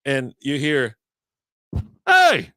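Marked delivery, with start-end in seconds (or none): 2.1-2.5 high, slow shouted call; far-off yell. Retold or imitated. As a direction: yell it across the fairway. Golfer yelling across the course.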